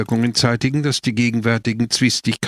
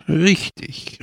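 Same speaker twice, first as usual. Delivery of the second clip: called out; 7 semitones higher than usual. A narrator's reading. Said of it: "rief Don Camillo".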